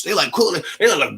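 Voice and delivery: ordinary talk, nothing marked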